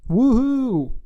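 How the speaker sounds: high, loud sarcastic whoop; drawn-out taunting celebration; mock cheer. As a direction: cheer in fake excitement. Sarcastic cheer after mocking.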